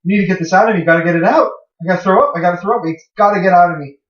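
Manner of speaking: mock panic. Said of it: "he's freaking out, saying".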